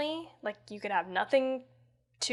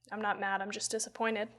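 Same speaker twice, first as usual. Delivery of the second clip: disappointed; 2 semitones lower, 8 dB quieter than usual. Retold or imitated. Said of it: "She's like".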